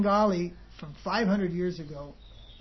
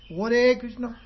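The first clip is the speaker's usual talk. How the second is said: imitated Bengali preacher, higher and louder; Bengali accent; 3 semitones higher, 5 dB louder, slower than usual. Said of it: "pakka Bengali preacher".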